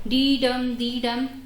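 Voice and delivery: "dee dum" sounded out slowly as a two-beat foot; metrical beat demo. Shown as a demonstration. Teacher showing students how meter sounds, "dee dum" as slow rhythmic beats. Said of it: "So the sound creates is like".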